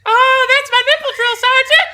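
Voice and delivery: very high squeaky loud voice; innocent private. Retold or imitated. Private explaining to the drill sergeant, high squeaky innocent voice. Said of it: "Private goes".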